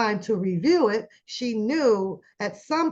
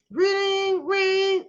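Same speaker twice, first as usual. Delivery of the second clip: high singsong ring ring; mimicking the phone before answering; imitated phone ring; 9 semitones higher than usual. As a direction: sing the ringtone up high.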